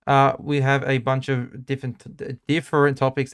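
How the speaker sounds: muffled behind a mask; through a face mask. Real, not acted. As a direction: talk through a Spider-Man mask. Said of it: "It's really hard to speak with this mask on".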